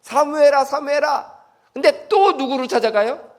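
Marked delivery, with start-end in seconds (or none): 0.0-1.4 high, gentle repeated call; God calling Samuel again and again; patient calling. Acted. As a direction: call the boy's name patiently, pitched up. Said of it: "인내를 가지시고 또 부르시는 거예요".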